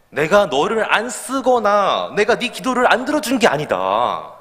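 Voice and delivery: slow, measured voice of God; lightly voiced calm divine reply; God's answer. God answering the complaining pastor, slow and measured. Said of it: "이렇게 응답하셨다는 거예요".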